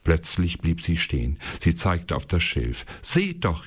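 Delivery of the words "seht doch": hoch, aufgeregt rufend; aufgeregter Ruf. A narrator's reading. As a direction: zeig erstaunt auf etwas im Schilf. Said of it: "rief sie". (Königstochter ruft ihre Dienerinnen aufgeregt herbei)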